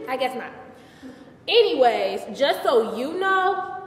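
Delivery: lightly acted sassy monologue to an audience; a touch of indignation at the gossip; Bathsheba. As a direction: air your grievances to the room, lightly theatrical. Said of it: "I did Bathsheba".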